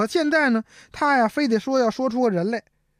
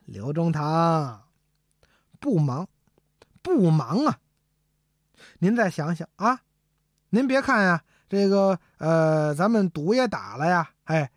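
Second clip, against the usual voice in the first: lightly voiced sneaky minister, coaxing; sly and sneaky. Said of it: "就得来个蔫损坏". (和珅对刘墉阴阴地慢声劝说)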